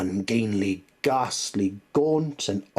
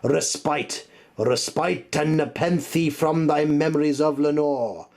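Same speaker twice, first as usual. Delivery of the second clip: pleading cry; 6 semitones higher, 4 dB louder than usual. Acted. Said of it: "I cried".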